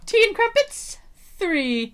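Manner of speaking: lightly voiced posh butler; a hint of a stuffy butler. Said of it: "like, a butler type voice".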